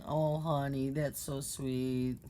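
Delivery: slow, syrupy mock sweetness; condescending honey-sweet sneer at a rival; sarcastic. Real, not acted. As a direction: drip fake sweetness on her, slowly.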